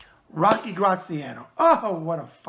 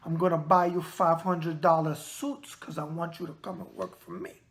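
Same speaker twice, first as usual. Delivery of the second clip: Frank Lopez quote; 2 semitones lower than usual. Retold or imitated. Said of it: "That was him".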